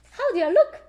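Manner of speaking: high, loud posing question; lightly voiced playful pose; dressed-up Peppa. A narrator's reading. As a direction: ask it grandly, showing off. Peppa as grown-up.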